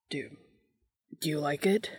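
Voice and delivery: hesitant, halting question with a nervous restart; voice shaking. A narrator's reading. Man asking about the dinner he made, nervous. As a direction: ask it timidly, stumbling on the first word. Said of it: "hating how his voice shook".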